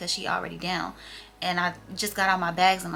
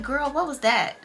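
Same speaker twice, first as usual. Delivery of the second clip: plain; 5 semitones higher than usual. Shown as a demonstration. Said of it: "I just said it just like that".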